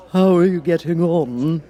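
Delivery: a sly cat purring out a greeting; Cheshire Cat. Acted. The Cat greets Alice, slow and sly. Cat's voice.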